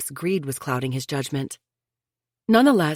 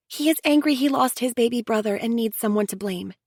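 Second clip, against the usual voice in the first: higher, earnest sister-in-law pleading for unity; Chelsea, insistent; 7 semitones higher than usual. A narrator's reading. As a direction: press them to sit together like family. Chelsea voiced, explaining Michael.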